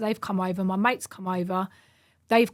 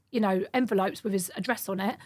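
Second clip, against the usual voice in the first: ordinary talk, nothing marked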